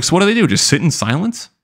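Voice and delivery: high-pitched baffled questions; incredulous. Retold or imitated. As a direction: ask it in high-pitched disbelief. Baffled reaction to people without inner dialogue.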